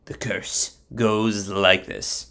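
slow, low, careful lead-in; measured, soft build-up; solemn announcement. Acted. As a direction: announce it with deliberate gravity. Bilam solemnly retries the curse.

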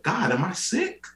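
very high, comic pleading; mock panicked plea. Patient pleading with God after weight news, mock panic. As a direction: beg heaven in hammed-up alarm.

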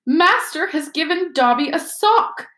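high-pitched, awed little elf voice; wonderstruck elf. A narrator's reading. Elf receiving a sock from his master, full of wonder. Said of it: "said the elf in wonderment".

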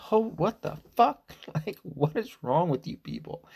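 high, mock-disgusted child's voice; a kid grossed out by the worm; hammed-up childish disgust. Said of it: "And I was just like".

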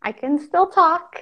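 half-numb mouth after dentist. Real, not acted. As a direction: talk with a frozen cheek. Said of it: "the left side of my face is frozen".

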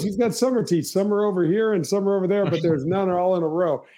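lightly voiced caddy delivering the gag. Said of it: "Yeah, he goes".

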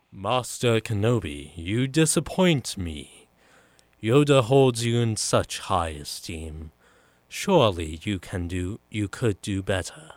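lightly voiced stern Sith lord, measured and emphatic; a hint of a grand, disappointed villain; Count Dooku. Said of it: "pull out my Count Dooku impression".

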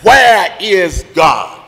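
slow, deliberate stern preacher question. Acted. Preacher glaring down at the boy, slow and stern. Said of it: "he asked him with a stern voice".

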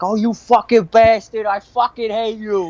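high-pitched imitated drunk screaming at her boyfriend; hammed-up high shrieking curses; mock drunk cussing. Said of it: "starts fucking cussing out her ass".

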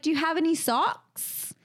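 lightly put-on Australian "socks"; imitated Australian accent. Friend retelling a failed sock request, imitated Australian accent. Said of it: "then you were like".

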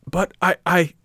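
high, loud, stammering objection; anxious protest. A narrator's reading. Puppet objects to arrest by soldiers, anxious protest.

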